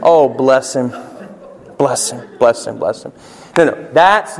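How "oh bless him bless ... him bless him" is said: sugary repeated bless him, lightly hammed; lightly mocking Southern sympathy; mock Southern pity. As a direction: coo it like a pitying Southern aunt. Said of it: "Southern hospitable way of saying dummy".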